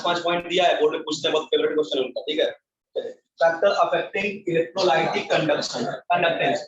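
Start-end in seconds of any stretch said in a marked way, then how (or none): 3.4-6.6 slow, measured heading; slow dictation. Real, not acted. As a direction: read the heading out slowly for notes. Teacher reads out the heading. (धीमे-धीमे शीर्षक बोलते हुए)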